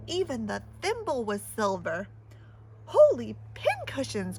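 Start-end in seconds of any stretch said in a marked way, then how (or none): 2.8-4.4 louder happy exclamation; delighted cry. Acted. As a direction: gasp with delight. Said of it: "cried Annabelle".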